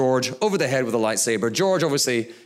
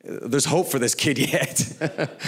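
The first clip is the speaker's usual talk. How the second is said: amused laugh; much slower than usual. Retold or imitated. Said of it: "I'm like".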